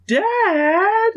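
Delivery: high, loud mock cry of Dad; annoyed whine-yell. Imitating annoyed Lisa calling her dad, high mock yell. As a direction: yell it out like an exasperated kid. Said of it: "and like that".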